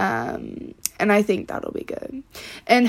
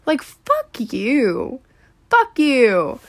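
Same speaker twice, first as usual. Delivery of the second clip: exasperated; much slower than usual. Real, not acted. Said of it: "that makes me so".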